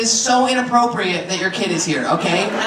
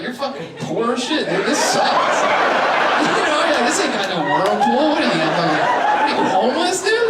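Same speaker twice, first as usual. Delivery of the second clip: mocking disdain.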